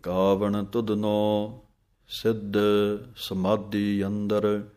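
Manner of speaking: slow, clear scripture reading with pauses; measured devotional santhya; slow Gurbani recitation. Shown as a demonstration. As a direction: recite line by line for students to follow. Teacher recites verse slowly.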